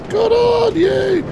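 high, loud shout over noise. Real, not acted. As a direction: shout to be heard over rails.

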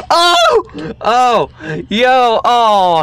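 high, loud bursts of triumph; excited shouting. Real, not acted. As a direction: yell out in glee as the trap springs. Troll trap works, shouting.

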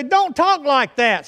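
high, loud, slow admonishment; acted scolding. Preacher voicing an elder correcting young people, acted scolding. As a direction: scold them firmly, drawing the words out.

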